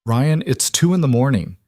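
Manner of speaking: ex-wife woken at night, mildly annoyed. Acted. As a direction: mildly put out at being woken. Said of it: "Jessica's annoyed voice".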